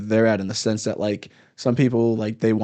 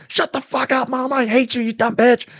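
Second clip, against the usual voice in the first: high, mock-bratty kid voice insulting mom; 12 semitones higher than usual. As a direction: play a spoiled kid snapping at his mother. Kid cursing at his mom.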